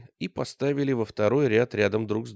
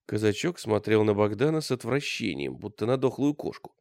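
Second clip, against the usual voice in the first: usual speaking voice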